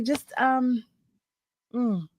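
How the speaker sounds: ordinary talk, nothing marked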